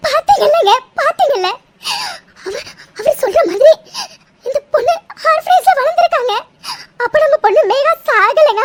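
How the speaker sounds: laughing through tears; tearful joy. Acted. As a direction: choke out the relief between sobs and laughs. Mother vindicated, daughter alive. (ஆனந்தக் கண்ணீருடன் சிரிப்பு)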